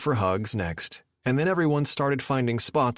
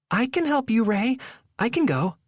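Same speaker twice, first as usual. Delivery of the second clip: eager insisting; 13 semitones higher than usual. A narrator's reading. Nora eager to follow.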